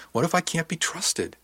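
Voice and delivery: slow, high, worried question; anguished self-doubt. A narrator's reading. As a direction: plead with rising self-doubt. Doubts own trustworthiness, upset.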